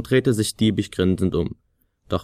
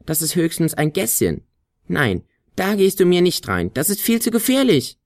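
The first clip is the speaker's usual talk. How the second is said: rising high, fearful lecture; scared scolding; 9 semitones higher than usual. A narrator's reading. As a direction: warn him off, getting frantic. Flöte belehrt ängstlich. (die Flöte warnt immer höher und ängstlicher)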